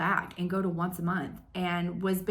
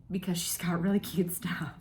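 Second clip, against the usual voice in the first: breathy confiding whisper; hushed playful admission; whispered aside. Real, not acted. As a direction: lean in and whisper the secret. Playful aside about following back.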